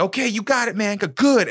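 high, pleading put-on voice; imitated beaten plea; mock whimpering surrender. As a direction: beg for mercy, hammed up. Beaten guy giving up.

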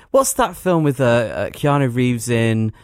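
hesitant, searching for the name; feigned forgetfulness. Acted. Winding up a friend about a film, feigned forgetfulness. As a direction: act as if it's slipped your mind. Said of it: "as if you can't remember what the film is".

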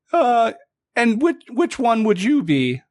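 high squeaky voice, awestruck; stunned otter shipwright. Acted. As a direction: squeak it out in disbelief. Otter stunned, jaw drops.

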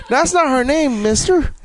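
put-on high squeaky kid protesting; wholesome 1950s kid. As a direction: innocent kid voice. Kid objecting.

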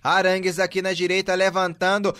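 building to a huge goal shout. Real, not acted. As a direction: explode on the goal call. Goal scored, commentator shouts.

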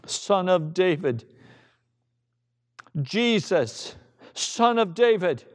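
measured, building cry for mercy; understated preacher's shout; acted shout. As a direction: call out in separate, insistent phrases. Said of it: "And he shouts it".

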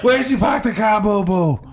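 quick Boston line; Boston accent. Acted. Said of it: "what I was doing was a Boston accent".

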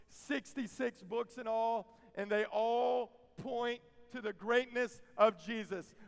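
measured, insistent pulpit delivery; emphatic preaching. Real, not acted. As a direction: drive each count home to the congregation.

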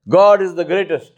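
God is the greatest, called out with weight; declared with feeling. Shown as a demonstration. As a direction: proclaim it so they feel it. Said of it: "Feel it".

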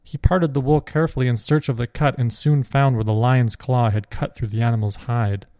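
ordinary delivery, nothing marked

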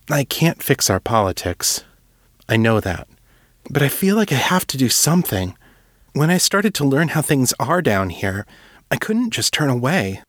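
put-on an earnest young writer begging to help; young Will, earnest. Will explains himself.

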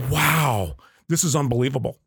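put-on Southern accent. Customer tasting nitro coffee for the first time, imitated Southern accent. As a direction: imitate a wowed Southerner, stretching the "Wow". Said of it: "Did you just do a Southern accent".

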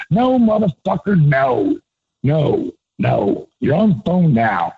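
Michael Hayes voice. Retold or imitated. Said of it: "could do a dead-on Michael Hayes".

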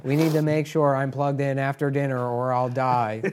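lightly imitated speech-synthesizer voice; a hint of computer-voice monotone; Stephen Hawking. Stranded guest warning the hosts, light synthesizer imitation. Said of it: "Put Stephen Hawking in room".

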